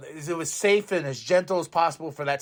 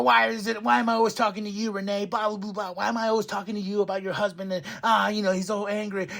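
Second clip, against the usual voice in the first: imitating angry wrestler; 5 semitones higher, faster than usual. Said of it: "He goes".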